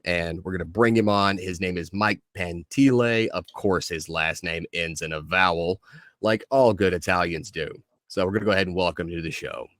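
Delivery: measured podcast host introduction; show host intro. Acted. Host welcoming listeners and introducing the guest, show intro delivery. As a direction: introduce the guest with deliberate pacing.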